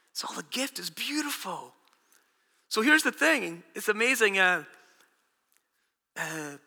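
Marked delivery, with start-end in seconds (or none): 0.1-1.7 soft repetition. Real, not acted. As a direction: drop to a soft, hushed repeat. Repeats the phrase softly.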